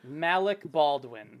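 drawn out, slow; slow drawn-out name. Shown as a demonstration. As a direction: savor the name slowly. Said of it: "we're doing that now".

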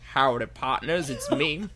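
put-on a light Southern US accent. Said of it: "This accent ain't nearly localized enough".

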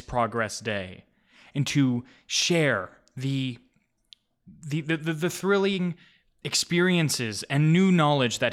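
orate like a proud chancellor; blustery pompous mayor. Acted. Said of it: "He goes".

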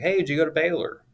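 a stranger hailing his dad while hunting; retold yell. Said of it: "this guy yelled at him".

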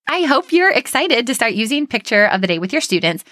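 enthusiastic. Real, not acted. Teacher podcaster urging listeners to try a classroom routine, enthusiastic. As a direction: let real enthusiasm lift the pitch. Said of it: "the enthusiasm in my voice".

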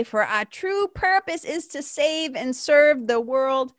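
slow, deliberate sacred reading; slow reverent reading. Real, not acted. Reading the lesson to her listeners, slow and reverent. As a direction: savor every phrase.

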